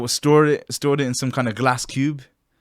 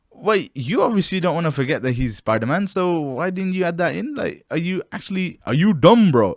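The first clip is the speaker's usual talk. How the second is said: mocking rant; 4 semitones higher than usual. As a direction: scoff at him like he's dumb. Mocking Doctor Strange's mistake.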